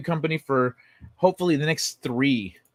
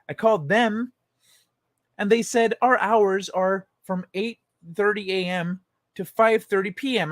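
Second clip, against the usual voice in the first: annoyed; 6 semitones higher than usual. Real, not acted. Annoyed rant about closed manufacturer.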